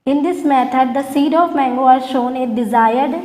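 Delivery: very slow, word-by-word dictation to students. Shown as a demonstration. Teacher dictating notes to her class, very slow and deliberate. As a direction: spell it out slowly so the class can write it down.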